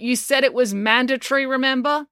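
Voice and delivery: high-pitched, pointed reminder; said loudly. A narrator's reading. Finn reminding the mayor it was mandatory, loudly. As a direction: pipe up for the crowd to hear. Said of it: "Finn said loudly".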